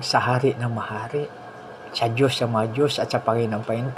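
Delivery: calm a frightened friend gently; reassuring. Retold or imitated. Friend comforting the sick man in a soft reassuring voice.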